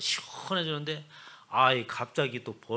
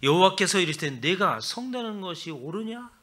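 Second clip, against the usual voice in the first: stern God; 5 semitones higher, 7 dB louder than usual. Retold or imitated. God gently rebuking sulking Jonah, lightly stern.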